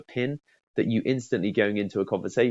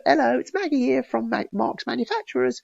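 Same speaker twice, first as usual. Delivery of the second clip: much higher put-on receptionist greeting. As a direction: sing the company greeting like a receptionist. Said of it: "that kind of style versus".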